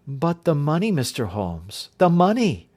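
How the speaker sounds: she can't let the money go; eager plea. Acted. Miss Hunter pleads over the pay.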